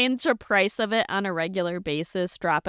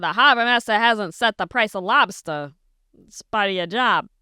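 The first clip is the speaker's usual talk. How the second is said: put-on weak Maine accent; 4 dB louder than usual. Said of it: "I can't do the Maine accent either".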